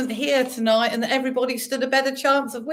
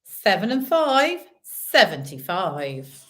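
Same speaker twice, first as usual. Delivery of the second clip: bingo caller; 3 semitones lower, slower than usual. Acted. Bingo calling numbers.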